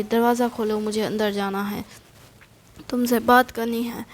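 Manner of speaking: a mild mock of a haughty demand; with attitude. Daughter haughtily demands to be let in, with attitude. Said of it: "वो ये attitude में कहती है".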